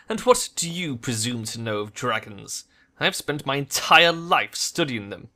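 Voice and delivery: rising indignation; doctor bristles as he's likened to dragons; offended doctor. Acted. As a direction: bristle at the insult. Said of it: "Fire flashes in Vauclair's eyes".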